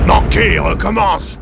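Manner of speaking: high, loud shouted order; colonel yelling. Acted. Colonel yelling at his gunners to fire again. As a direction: yell it over the battle noise. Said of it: "hurla le colonel".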